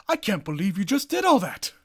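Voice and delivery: indignant father. Retold or imitated. Father voiced in retold scene.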